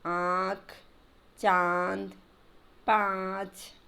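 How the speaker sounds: आँख, चांद, पाँच slowly, the long vowel through mouth and nose; आँख, चांद, पाँच drawn out with a nasal "aa"; nasalised vowels. Shown as a demonstration. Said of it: "इसका उच्चारण मुंह और नाक दोनों से होता है".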